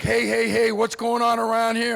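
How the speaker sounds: loud, startled challenge to one's own body; alarmed protest. Acted. Man waking up with aches at night, loud alarmed protest. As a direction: call out in mock alarm.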